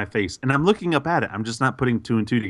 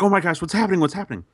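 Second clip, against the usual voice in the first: high-pitched mock panic; retold alarm; 9 semitones higher, faster than usual. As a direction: act out bewildered alarm, pitched up. Retelling his alarm to his wife.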